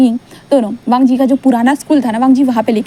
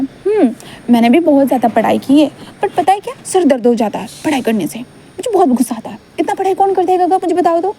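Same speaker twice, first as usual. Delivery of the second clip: put-on high little-boy voice, complaining about study; childlike Wing; 4 semitones higher than usual. Wing grumbles to Gaga about studying, high child voice. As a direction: play the small boy grumbling to his elder.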